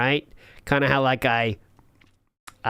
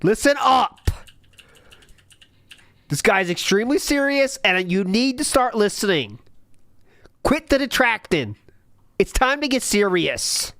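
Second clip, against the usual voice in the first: raised, pushy mock announcer urging them to listen; mock serious hype; 5 semitones higher than usual. Streamer mocks the clip's serious tone, hyped. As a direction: hype up a fake serious moment.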